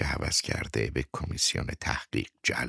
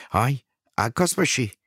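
calling out; 8 semitones higher, 5 dB louder than usual. Acted. Calling out to the photographer.

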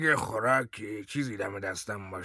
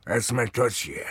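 loud defiant echo; 2 semitones higher, 6 dB louder than usual. Acted. Baghuth mimics interrogator's question.

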